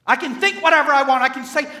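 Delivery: loud, high, fast quoted boast; mock defiant boast. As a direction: blurt it out as a careless braggart. Mimics careless believer's defiant boast.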